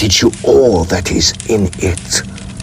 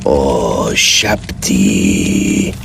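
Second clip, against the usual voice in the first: frantic invocation; 12 semitones lower, much slower than usual. Acted. Desperate plea to his god.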